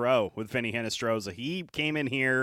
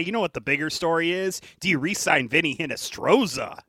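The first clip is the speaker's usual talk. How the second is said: sarcastic, feigned serious tone, pitched up at the end; 5 semitones higher, 3 dB louder than usual. Answering the other speaker with a mock question: sarcastic. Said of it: "I'm being sarcastic".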